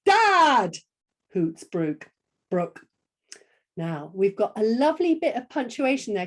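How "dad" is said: loud, high falling hoot; big hooted shout. Shown as a demonstration. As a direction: hoot it out like a calling owl. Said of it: "you want the first one?".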